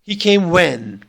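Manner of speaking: slow echo question stressing "when"; rising question word. Shown as a demonstration. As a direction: lean on the final "when" to ask for a repeat. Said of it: "marked by rising intonation".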